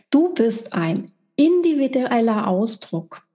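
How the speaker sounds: individueller said with light extra weight; stress on individueller. Shown as a demonstration. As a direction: lean a little on individueller. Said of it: "die Betonung liegt auf individuell".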